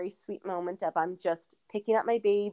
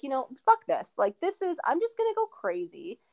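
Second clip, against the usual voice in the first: mock wild defiance. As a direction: replay the moment she stopped holding back, pitched up. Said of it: "I was like".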